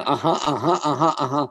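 chuckling through a dismissive uh-huh; mock the boss while laughing; laughing mimicry. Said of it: "he's going".

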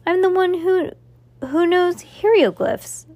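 wounded pride, I'm the expert here; indignant. Acted. Max Ernest protests to Cass that he knows hieroglyphs, indignant.

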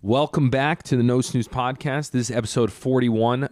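radio host welcome, a little lifted. Real, not acted. Host welcomes listeners back to episode, radio voice. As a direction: open the show in a radio voice. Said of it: "I put on a radio voice".

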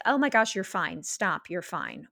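imitating a caregiver waving tears away; dismissive parent. Parent to a crying child, mock impatient dismissal. Quoting invalidating family member.

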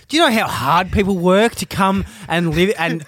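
reproachful lecture, pushing each point a little harder; dressing down. Retold or imitated. Holidaymaker to a kid caught stealing, indignant dressing down. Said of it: "giving him a bit of a dressing down".

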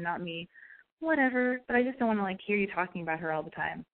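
put-on light American Valley Girl lilt; Valley Girl intonation. Shown as a demonstration. Demonstrating what a girl tells her crush, light Valley Girl intonation. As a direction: let a touch of put-upon Valley Girl creep in. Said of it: "minus the Valley Girl intonation I'm giving it".

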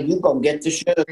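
drawled Southern "You're gonna get the sugar."; Southern saying. Shown as a demonstration. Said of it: "You say".

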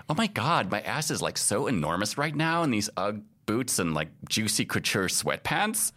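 a hint of a TikTok girl gushing; mock Valley Girl complaining about her Ugg boots. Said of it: "young girl California Valley Girl voice".

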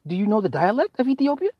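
very high, stammering questions; flustered dad. Retold or imitated. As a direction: stumble over the question. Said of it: "I'm like".

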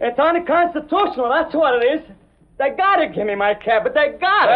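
protest, pitch rising in outrage; indignant protest. Acted. Cabbie protesting his cab.

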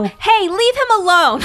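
high, loud drawn-out plea; exaggerated sticking up for someone; mock scolding defence. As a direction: call out slowly in mock protest. Acts out defending a teased person.

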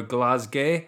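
halfway-local Glasgow pronunciation; mild Glasgow accent. Shown as a demonstration. Showing how near-locals say Glasgow, mild Glasgow accent. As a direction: say Glasgow like a near-local, final vowel shortened to "gay". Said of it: "if you're sort of from the area".

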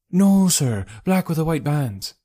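high, firm working woman voice; boatman's wife. Acted. Narrator voices wife correcting detective.

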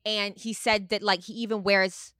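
punchy, emphatic reality-star impression; dramatic housewife dishing gossip; Teresa. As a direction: tell the family drama with hard-hit key words. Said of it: "Your Teresa's so good".

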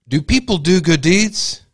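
high, slow dramatic question. Acted. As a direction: ask it like a big reveal. Posing the big question.

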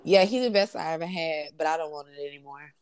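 lightly voiced reality star line; quoting reality star. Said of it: "she said it like that".

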